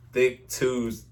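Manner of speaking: whispered confession, slow; embarrassed whisper. Real, not acted. Admitting his old email to his friend, whispered. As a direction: hush it out like a secret. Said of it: "side note".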